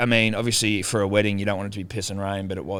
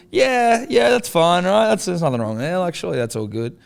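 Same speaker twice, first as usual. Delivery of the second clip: nervous reassurance; 9 semitones higher, 5 dB louder than usual. Retold or imitated. Nervously defending leaving baby with Dad.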